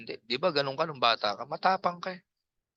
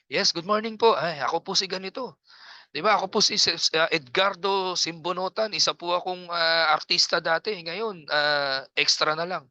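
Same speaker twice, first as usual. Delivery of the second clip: confident self-introduction; 5 semitones higher than usual. Shown as a demonstration. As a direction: greet them boldly like you own it. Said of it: "pag tinawag kita sa Zoom".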